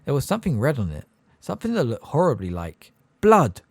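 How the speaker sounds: ordinary delivery, nothing marked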